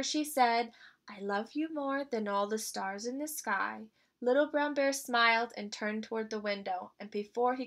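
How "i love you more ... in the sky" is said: softer voiced bedtime murmur; whisper. Mama bear soothes her cub to sleep, softly. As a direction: hush it gently, almost a whisper. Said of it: "Then, in a whisper".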